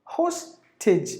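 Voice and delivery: "Hostage" split as HOS, then tij; weight on HOS in "Hostage"; syllable-by-syllable model of "Hostage"; stress on first syllable. Shown as a demonstration. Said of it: "give the volume for the first syllable".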